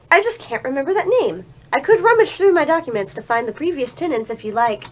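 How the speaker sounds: put-on old lady voice. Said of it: "her old lady voice kills me".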